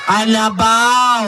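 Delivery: very slow shouted kalabaw; drawn-out answer. Acted. Puppet proudly shouts wrong answer, slow.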